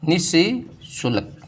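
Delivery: निःशुल्क drawn out slowly, each syllable held; teacher dictating the right spelling slowly; slow correct form. Shown as a demonstration. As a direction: stretch निःशुल्क so students can copy it. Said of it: "क्या लिखेंगे?".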